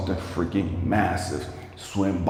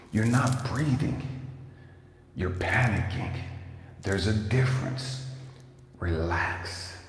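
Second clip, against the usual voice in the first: soft, reassuring voice talking him down; calm coaching voice; 5 dB quieter, slower than usual. Retold or imitated. Voice in his head calming the panicked diver, softly. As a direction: quietly coax him to breathe and relax. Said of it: "And I hear this voice".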